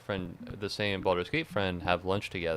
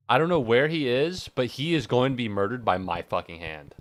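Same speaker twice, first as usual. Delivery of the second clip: higher, louder hammed-up villain vow; mock murderous threat; 4 semitones higher, 6 dB louder than usual. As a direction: threaten revenge like a cartoon villain. Mock threat against dictionary publisher.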